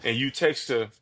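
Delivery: motivational speech. Pretend. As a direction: speak like a coach lifting up a friend. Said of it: "give me the best motivational speech".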